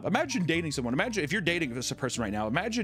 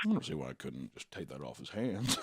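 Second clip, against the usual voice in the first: lower, dry voice of a bidder glasses down; nerdy eBay buyer; 13 semitones lower, 7 dB quieter than usual. Retold or imitated. Imagined eBay bidder eyeing the Dybbuk box, lower and dry. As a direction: play him casual, peering at the screen. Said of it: "and he's just like".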